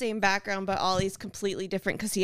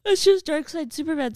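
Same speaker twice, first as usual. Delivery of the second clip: emphatic; 7 semitones higher, 6 dB louder than usual. Real, not acted. Repeats correction emphatically.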